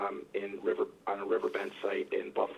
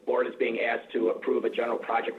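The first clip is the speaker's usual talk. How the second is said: muffled speakerphone, underwater sound; talking through a speakerphone; 9 dB louder than usual. Real, not acted. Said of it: "You sound like you're underwater".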